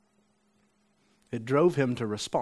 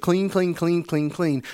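higher, louder, excited repeats; retold cry of joy, starting high and settling; joyful mock yell; 5 semitones higher, 4 dB louder than usual. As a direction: fire it off like happy news. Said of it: "able to not yell".

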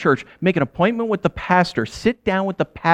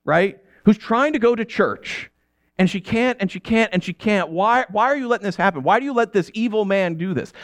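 retold angry prayer; 5 semitones higher than usual. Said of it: "just furious at God".

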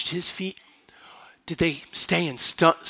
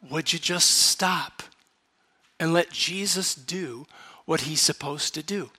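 softer aside to John; 7 dB quieter than usual. Retold or imitated. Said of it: "And then I say".

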